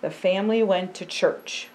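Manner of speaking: slow, earnest picture-book reading; storybook voice for a child. Acted. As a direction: tell it gently to a young listener.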